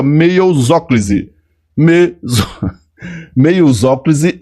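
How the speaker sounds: meiosóclise said slowly with a laugh; playful joke word. Shown as a demonstration. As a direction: tease the class with a made-up word. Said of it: "faz de conta que aqui". (brincando com a palavra meiosóclise)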